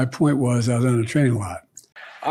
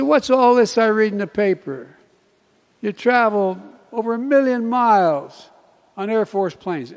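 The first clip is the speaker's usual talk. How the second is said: mock teasing; 8 semitones higher, 6 dB louder than usual. Conductor teasing quote.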